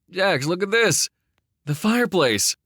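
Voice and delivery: high, loud amazed call; filled with awe. A narrator's reading. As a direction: call out in wonder at the discovery. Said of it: "Perry's voice was filled with awe".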